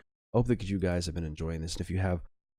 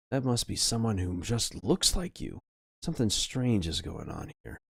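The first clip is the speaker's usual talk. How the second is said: higher-pitched, animated reading; story narration; 4 semitones higher than usual. Acted. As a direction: read the game's story aloud with lively intrigue. Reads game narration.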